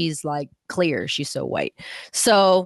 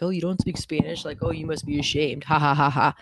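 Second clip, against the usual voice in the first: mock teasing. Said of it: "people here joke about it".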